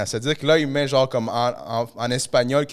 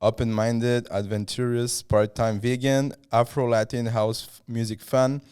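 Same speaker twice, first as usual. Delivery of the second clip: reading in French-accented English; 3 semitones lower than usual. Real, not acted. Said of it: "mon accent anglais, il est à chier".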